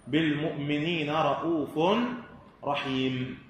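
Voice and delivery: recited with رؤوف as "ra'ufun" and رحيم closed on m; joined tanween, final stop. Shown as a demonstration. Teacher showing joining against stopping, tanween only on رؤوف. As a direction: sound the "un" in رؤوف, drop it on رحيم. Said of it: "وصلا لا وقفا".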